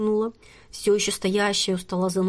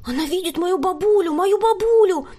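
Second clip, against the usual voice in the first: high, loud, rising excited cry; unstoppable excitement; 10 semitones higher, 5 dB louder than usual. A narrator's reading. Girl insisting to her friends, high and loud. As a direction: she can't calm down about her grandma. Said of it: "не унималась Тереза".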